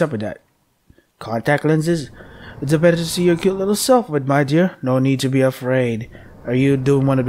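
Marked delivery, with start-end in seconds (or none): 2.6-4.8 quick sugary granny; fast, higher sweet old lady; reading the disguised wolf's line; grandmother voice. Pretend. Wolf-grandmother reply.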